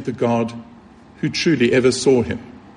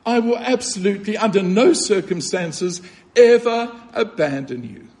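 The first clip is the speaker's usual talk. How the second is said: tender repeat; 5 semitones higher than usual. Shown as a demonstration. Preacher repeating Christ's vow to the listener, tender. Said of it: "The English should probably be something like this".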